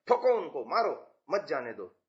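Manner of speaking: mild command, falling through मत जाने दो; order to troops. Acted. Teacher acting out orders to the army, break after मारो. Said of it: "हम सेना को कह रहे हैं".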